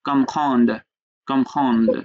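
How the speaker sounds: "Comprendre" stopped short on the final consonants; falling "Comprendre", closed on the d with no vowel after; vowelless ending. Shown as a demonstration. Teacher showing where to stop, "Comprendre" halted on its last consonant. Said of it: "ওখানে গিয়ে থেমে যাই".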